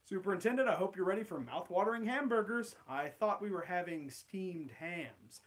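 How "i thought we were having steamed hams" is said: suspicious Chalmers. Acted. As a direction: flatly question the host. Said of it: "Steamed Ham script".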